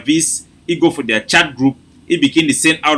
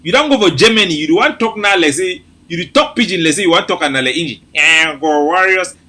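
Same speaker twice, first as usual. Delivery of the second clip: high, giggly, laughing through words; can't stop laughing as you speak; laughing while talking; 7 semitones higher than usual. Real, not acted. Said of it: "my belly dey laugh the joke and kill me".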